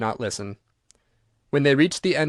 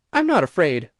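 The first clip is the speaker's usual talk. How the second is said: firmly; 3 semitones higher, 3 dB louder than usual. A narrator's reading. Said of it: "she said firmly".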